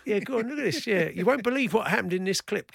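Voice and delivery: lightly voiced hype teaser; hint of a clickbait tease; clickbait video narrator. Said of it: "Ken Clickbaits would be fantastic".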